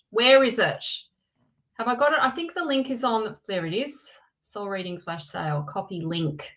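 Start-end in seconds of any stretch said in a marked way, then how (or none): 0.1-0.8 a touch louder, impatient repeat. Real, not acted. Host, frustrated, searches louder for the link. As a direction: ask it again with more push.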